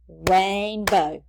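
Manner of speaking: "Rainbow" in two firm, separated beats; a distinct beat on each half of "Rainbow"; syllable by syllable. Shown as a demonstration. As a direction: count out "Rainbow" as rain, bow. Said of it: "say that word and count out our syllables".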